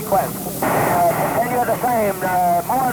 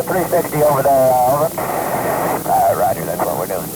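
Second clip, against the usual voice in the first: crackly military radio. Real, not acted. Pilot and ground camp on radio.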